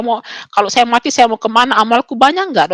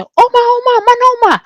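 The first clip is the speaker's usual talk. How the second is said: very high, loud call for Grandma; high-pitched sustained holler; excited calling out; 13 semitones higher, 5 dB louder than usual. Retold or imitated. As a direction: re-enact shouting from the gate for someone inside. Calls for grandmother at the gate.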